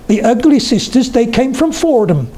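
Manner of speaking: put-on high-pitched Oxfordshire country accent, drawn out; lilting, rhotic Oxfordshire verse voice; Pam Ayres. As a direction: recite it high in a rural Vale of Oxford accent. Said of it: "but I can do the accent".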